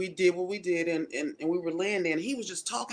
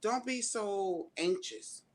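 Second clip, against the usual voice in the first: slow advice; 5 dB quieter, much slower than usual. Retold or imitated. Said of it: "I would tell that person".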